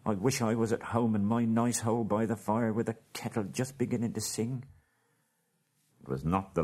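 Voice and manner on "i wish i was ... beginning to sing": higher, grumbling hobbit voice. Acted. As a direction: wish you were home by the fire. Bilbo grumbles, longing for home.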